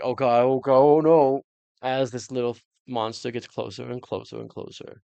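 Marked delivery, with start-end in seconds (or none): 0.0-1.4 panicked doctor. Retold or imitated. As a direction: yell it like a cornered man in terror. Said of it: "He's like".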